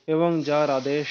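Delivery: slow, word by word dictation; dictating. Shown as a demonstration. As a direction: spell it out slowly for the pupil. (ধীরে ধীরে শ্রুতলিপি বলা)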